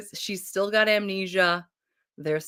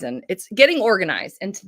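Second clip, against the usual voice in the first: usual speaking voice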